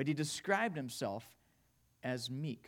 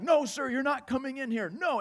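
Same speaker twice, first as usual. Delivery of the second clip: higher-pitched imitation of standing firm; retold firm refusal; 6 semitones higher than usual. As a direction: play a teacher refusing an intruder. Teacher standing up to the intruder.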